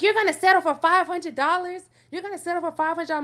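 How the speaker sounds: mock angry mom. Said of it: "My mom was pissed".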